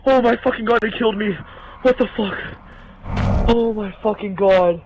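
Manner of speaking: loud panicked swearing; yelling in shock after dying; panicking gamer. Real, not acted. Just got killed by monster.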